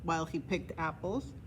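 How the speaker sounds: usual speaking voice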